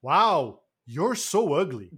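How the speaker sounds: slow, deliberate tame movie insult; dubbed "wow". Retold or imitated. Quoting the afternoon TV dub, mock-earnest wow. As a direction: imitate a sanitized dub, stretching it out. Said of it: "he tries to make it like a wow".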